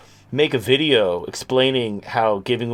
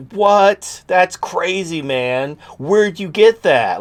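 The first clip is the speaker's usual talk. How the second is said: loud, higher-pitched incredulous friend; mock amazement; 6 semitones higher, 4 dB louder, much slower than usual. Imagined friend hearing a crazy idea, mock amazed. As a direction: play the blown-away buddy, voice jumping up.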